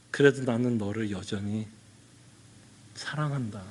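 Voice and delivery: low, gentle assurance; God's tender love. Retold or imitated. Pastor voicing God assuring a sinner, tender and low. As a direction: say it softly, like a father. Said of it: "하나님이 뭐라고 말씀하는 것 같아요?".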